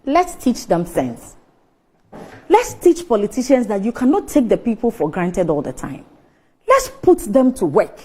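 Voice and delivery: earnest pleading. Real, not acted. Radio guest appealing to listeners about politicians, earnest pleading. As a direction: plead soberly, leaving long pauses. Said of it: "I am pleading".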